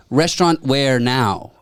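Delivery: slow pidgin English in a lightly imitated local accent; mock local accent. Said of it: "in an accent that sounds similar".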